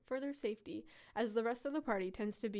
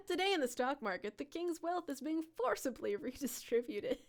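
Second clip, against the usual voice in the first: laughing market report; giggly stock news anchor; news reporter voice; 2 semitones higher than usual. Pretend. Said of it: "someone's gotta tell the news".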